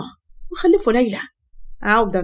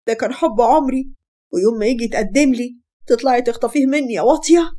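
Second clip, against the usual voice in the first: screaming accusation; 4 semitones higher than usual. Acted. Mahasen screams at Fatma over the stolen groom, wailing rage. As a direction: shriek it at the sister who stole her groom. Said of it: "فضلت تصوت وانهارت وقعدت تلطم وقالت".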